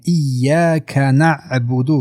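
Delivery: slow ایاک نعبد with a light, clear ka. Shown as a demonstration. Teacher showing clear kaf in ایاک, slow and distinct. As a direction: keep the k of ایاک bright in slow recitation.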